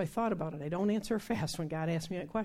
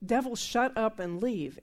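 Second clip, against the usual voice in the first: slow, firm rebuke, a little louder; angry command; 4 semitones higher, 5 dB louder than usual. Retold or imitated. Kenneth Hagin rebukes the noisy demon, slow angry command. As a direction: order the devil out, measured and stern. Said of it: "finally Kenneth got mad and said".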